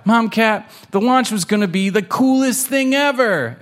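high-pitched, excitable kitten voice; high, hammed-up kitten complaint; protesting kitten. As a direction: plead like a let-down kid. Kitten protests to mom in story.

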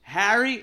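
high, loud "Harry?" guessing; wrong name guess. Retold or imitated. Confused stranger guessing Harry, high and loud.

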